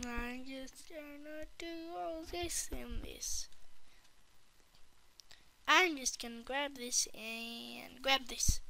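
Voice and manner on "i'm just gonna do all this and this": breathy unvoiced whisper, sneaking. Real, not acted. Kid sneaking through the game, whispering. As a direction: hush it like you're sneaking.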